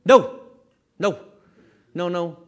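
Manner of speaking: put-on loud, sharp refusal like a stubborn child; emphatic no. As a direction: bark the no like a defiant kid.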